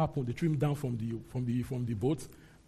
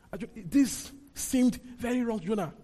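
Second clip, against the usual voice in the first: indignant Jonah; 6 semitones higher than usual. Acted. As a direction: protest it like an offended prophet. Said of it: "this anger is not ordinary".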